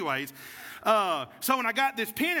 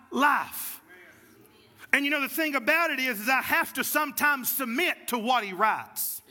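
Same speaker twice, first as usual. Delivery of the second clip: preaching. Acted. Pastor preaching to the congregation, rising fervour.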